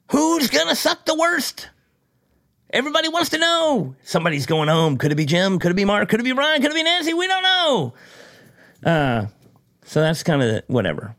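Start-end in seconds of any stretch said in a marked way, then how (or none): 0.1-7.9 mock suspense host, rising higher with each name; dramatic announcer. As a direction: ham it up like a TV announcer building tension. Mock game show suspense build.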